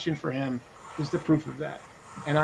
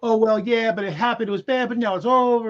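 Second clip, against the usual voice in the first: imitated shrug-off in a raised pitch; mock dismissive; 5 semitones higher than usual. Speaker imitating a man who says it's over, mock dismissive. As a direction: parody someone waving the whole thing away. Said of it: "this dismissive thing".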